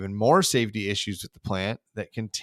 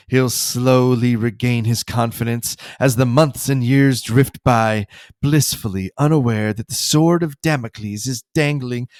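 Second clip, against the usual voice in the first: slow, louder sinister relish; a hint of villainous Mister Burns, drawn out; scheming Burns; 6 dB louder than usual. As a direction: savour the threat like a villain. Burns explaining his scheme.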